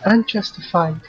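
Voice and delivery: Unjustified said carefully, falling at the end; corrected pronunciation. Shown as a demonstration. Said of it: "No, she said unjustified".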